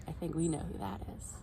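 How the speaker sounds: fast conspiratorial whisper; whispered aside. Real, not acted. Narrator hinting about the creature to children, whispered. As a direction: let the listener in on the joke.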